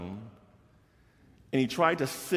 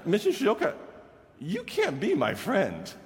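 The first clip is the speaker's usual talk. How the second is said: put-on higher, halting boy's voice; student's refusal; 8 semitones higher than usual. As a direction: imitate Travis gently refusing. Teacher voices Travis refusing.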